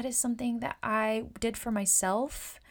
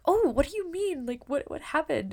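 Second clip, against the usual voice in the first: curious client; 7 semitones higher, 5 dB louder than usual. Retold or imitated. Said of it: "And they're like".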